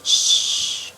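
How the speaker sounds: whispered hush; shushing. A narrator's reading. Hatter and March Hare hushing Alice, whispered. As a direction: hush her sharply under the breath. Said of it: "the Hatter and the March Hare went".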